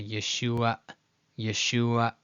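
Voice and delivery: Yeshua cut off after the last ah; ye-SHU-a, Yeshua ending in a glottal stop; final glottal stop. Shown as a demonstration. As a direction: close Yeshua with a glottal catch. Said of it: "with that glottal stop at the end".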